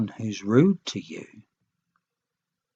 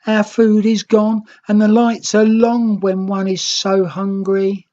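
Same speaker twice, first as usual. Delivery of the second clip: sobbing; 10 semitones higher, 5 dB louder than usual. A narrator's reading. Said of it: "The young Red sobbed".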